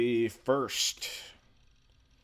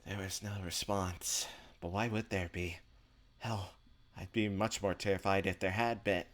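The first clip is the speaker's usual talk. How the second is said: measured first-person narration, softer than the chat; story narration; 5 dB quieter than usual. A narrator's reading. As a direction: read the inner monologue like a story. Reads visual novel narration aloud.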